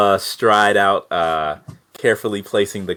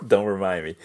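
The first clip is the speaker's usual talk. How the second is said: laughing; faster than usual. Real, not acted. Player laughs at owed debt.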